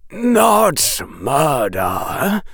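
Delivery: slow, forced out with effort; strained voice. Acted. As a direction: push the words out through strain. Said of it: "said a strained voice".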